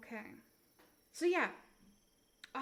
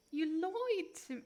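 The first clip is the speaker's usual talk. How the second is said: put-on another go at a New Jersey accent, pitched up; higher, hammed New Jersey vowels; 4 semitones higher than usual. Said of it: "the New Jersey".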